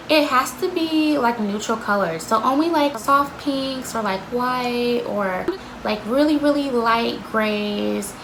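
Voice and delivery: lightly voiced manager, talking down sweetly; imitating a boss who treats her like a baby; condescending manager. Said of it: "talk to everybody like a fucking baby".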